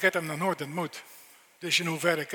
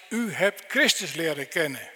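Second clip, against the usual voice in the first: "kennen" pressed home, louder and firm; stress on kennen; 5 dB louder than usual. Shown as a demonstration. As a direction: lean hard on "kennen" at the end. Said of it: "Met de nadruk op kennen".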